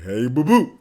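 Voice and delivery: cartoon bear catchphrase with a rising swoop; jovial cartoon bear impression; Yogi Bear. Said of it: "hours doing Yogi Bear".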